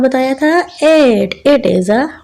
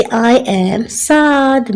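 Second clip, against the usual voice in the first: very slow, measured classroom reading; slow read-aloud; much slower than usual. Shown as a demonstration. Teacher reading a passage to children, slowly. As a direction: read it out word by word for young learners.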